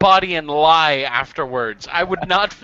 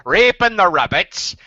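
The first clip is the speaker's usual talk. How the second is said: put-on rural accent. Dubbing the video speaker, lightly rural accent. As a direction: voice the guy as a country bumpkin. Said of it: "I made him rural. I just like the accent".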